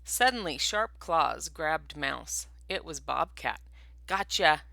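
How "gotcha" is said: loud, gloating snarl; predator's loud snarl on catching prey. Acted. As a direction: snap it like a pouncing bobcat. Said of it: "he snarled".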